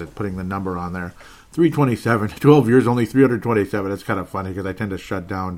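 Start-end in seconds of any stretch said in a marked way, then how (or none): 1.5-3.9 loud laughing amusement. Real, not acted. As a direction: laugh it out in disbelief. Laughing at episode count.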